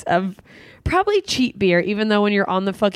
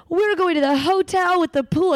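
put-on excited child; 9 semitones higher than usual. Child's excitement about the pool.

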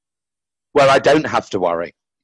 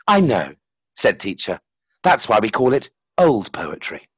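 story reading; slower than usual. Acted. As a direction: read it like a fable. Reads his story aloud.

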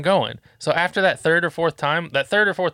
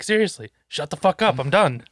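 retold fed-up order; 3 semitones higher than usual. Dad to his kid after three warnings, fed up. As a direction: re-enact a dad who has had enough.

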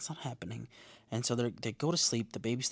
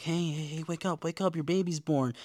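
gently rousing; 4 semitones higher than usual. Retold or imitated. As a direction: coax someone awake, lightly acted. Retold waking of new mother.

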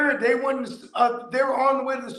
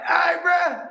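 car thief voice; 9 semitones higher, 5 dB louder than usual. Retold or imitated.

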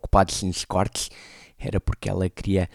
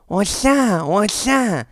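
mock shouting a friend's name, much higher and louder; calling out; 11 semitones higher, 5 dB louder, much slower than usual. Narrator calls his friend riding past, retold calling out. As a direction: hail him from a distance.

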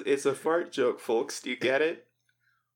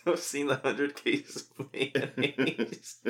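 wrong character voice; much slower than usual. Pretend. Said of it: "that's the wrong voice".

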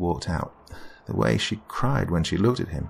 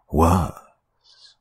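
louder menacing warning; 4 dB louder than usual. Acted. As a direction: push the repeat harder. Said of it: "the voice warned".

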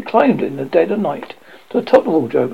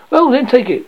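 taunting; 9 semitones higher, 4 dB louder than usual. Acted. Taunting exchange.

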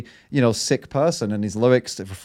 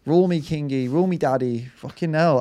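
put-on, higher begging voice to the king; mock royalist fan; 4 semitones higher than usual. Mocking fans who beg the new king, a put-on pleading voice. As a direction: ham up a subject pleading to be ruled. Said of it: "They're like".

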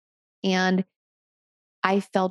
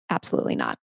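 emphatic refusal; 3 dB quieter, much faster than usual. Real, not acted. Rejecting Freud's claim.

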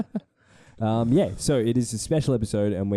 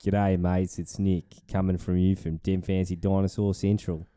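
hammed-up American-movie Aussie accent, a little lower; bad Australian accent; 3 semitones lower than usual. Podcast host greets the audience, bad movie Australian accent. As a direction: put on a bad mock Australian twang. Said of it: "doing that really bad American ac-, uh, Australian accent".

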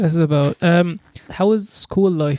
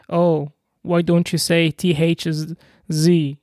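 put-on slow, drawn-out Egyptian-accented teasing; mock Egyptian scolding; much slower than usual. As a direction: chide in an Egyptian accent, stretching the Z. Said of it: "if I go to Egypt and I start speaking".

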